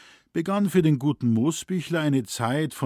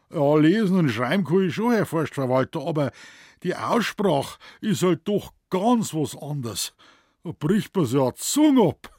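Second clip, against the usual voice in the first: higher, louder Bavarian protest; protesting forester; 5 semitones higher, 5 dB louder than usual. A narrator's reading. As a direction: protest to the boss in dialect. Moosbichler protesting to forest manager. (höherer, lauter bayerischer Protest)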